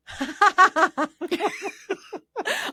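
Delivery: high, loud rising laugh; demo laugh out the window. Shown as a demonstration. Showing how to laugh at drivers at a red light, loud and high. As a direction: let rip a big fake laugh at the drivers. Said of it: "and just be like".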